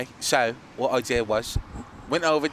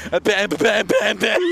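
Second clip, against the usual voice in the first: higher, louder mock babble; mock stroke; 6 semitones higher, 5 dB louder, slower than usual. Retelling the kid's reaction, in a mock-stroke stammer. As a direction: imitate someone having a stroke. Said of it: "He's like, having a stroke".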